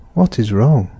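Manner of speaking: "what" carries the fall of a wh-question. Shown as a demonstration. Teacher voicing the worried father's question, falling on "what". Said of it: "A question".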